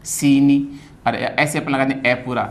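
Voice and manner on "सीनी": सीनी with long सी, short नी; long-short syllables. Shown as a demonstration. Teacher models the word after explaining, long-short syllables. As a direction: hold सी, then a brief नी. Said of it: "सी नी छोटा है".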